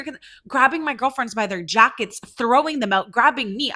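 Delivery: real indignation building while listing the manhandling; getting heated up. Real, not acted. Recalling bouncers grabbing her friends by their jackets, heated. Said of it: "I'm getting heated up".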